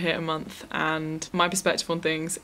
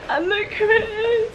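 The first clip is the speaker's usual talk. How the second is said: excited; 4 dB louder than usual. Real, not acted. Greeting friend on camera.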